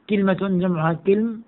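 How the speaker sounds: كلمة as "KIL-ma", كلم as "kilm"; i after k in كلمة and كلم; kilma, plural kilm. Shown as a demonstration. Teacher pairs singular and plural, pronounced kilma and kilm. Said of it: "على وزن سدرة".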